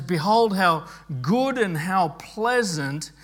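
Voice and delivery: mildly impassioned scripture reading; enthusiastic exclamation. Acted. Preacher quoting David's joy in unity, mildly enthusiastic. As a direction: give each phrase some joyful weight. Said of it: "There's something enthusiastic about what David is, is saying".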